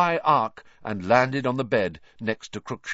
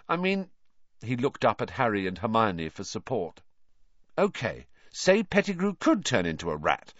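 Ron voice; 4 semitones higher than usual. Acted.

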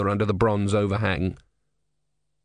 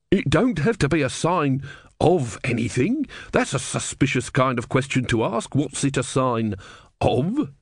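argumentative wooden-legged man; 3 semitones higher than usual. Acted. Wooden-legged man argues in the crowd.

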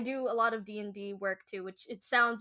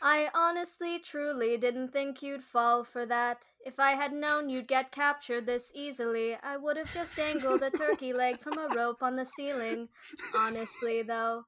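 GLaDOS voice; 3 semitones higher than usual. Pretend. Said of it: "I can mimic glados's voice from Portal".

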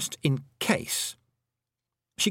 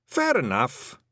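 a wee Scots Feegle marvelling at writing; 3 semitones higher, slower than usual. A narrator's reading. Feegles watching Tiffany write, awed Scots murmur. Rob Anybody replies.

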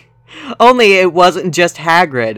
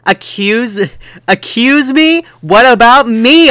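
high, loud hammed-up outrage; over-the-top indignant cry; not a real growl, a high loud mock protest; 8 semitones higher, 6 dB louder than usual. A narrator's reading. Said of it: "I growled".

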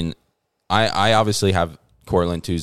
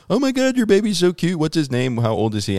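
much higher, sing-song mock cooing; gushing lady; 10 semitones higher than usual. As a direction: gush over the baby like an overeager stranger. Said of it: "they're like".

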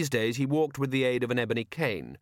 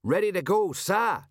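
high, smart military shout; shouted report; 9 semitones higher, 4 dB louder than usual. A narrator's reading. Nervous sergeant reports ready to patrician, shouting. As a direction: call it out like a nervous sergeant on parade. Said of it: "he shouted".

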